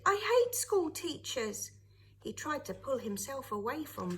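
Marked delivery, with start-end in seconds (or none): 0.1-1.7 put-on high, loud child's protest; shouted. A narrator's reading. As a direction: push the hate out loud. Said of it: "he shouted".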